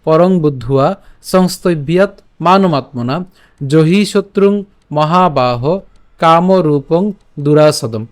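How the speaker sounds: measured phrase-by-phrase Sanskrit reading; verse recitation. Shown as a demonstration. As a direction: recite carefully, pausing after each phrase. Teacher recites the verse after drilling.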